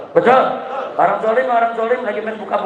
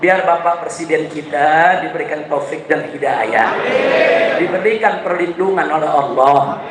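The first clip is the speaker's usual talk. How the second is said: public prayer; 2 semitones lower, slower than usual. Real, not acted. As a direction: pray aloud over the crowd, stretching each phrase. Leads a prayer for the president.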